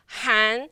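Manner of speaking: HAN gliding upward; second tone. Shown as a demonstration. Teacher naming the tone of han, rising second tone. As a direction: let han rise toward its end. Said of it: "the second tone".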